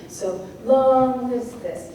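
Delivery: slow "so long lives this", strong on LONG; punctuated grouping. Shown as a demonstration. Teacher showing the pattern, slow and stressed. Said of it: "punctuate and flow in this way".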